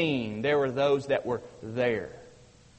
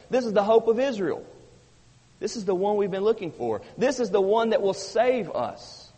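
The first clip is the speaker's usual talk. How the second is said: rising preaching fervor; 4 semitones higher than usual. Acted. Preacher builds to excited proclamation.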